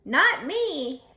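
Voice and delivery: high, loud giggly boast; giggling pig. Acted. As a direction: toss it off with a giggle.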